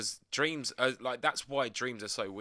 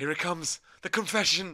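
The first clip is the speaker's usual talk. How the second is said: teasing; 6 semitones higher, 7 dB louder than usual. Pretend. Teasing mock announcement.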